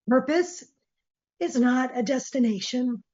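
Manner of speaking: hoarse, strained voice; losing voice. Real, not acted. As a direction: voice giving out after coughing. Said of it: "I'm losing my voice".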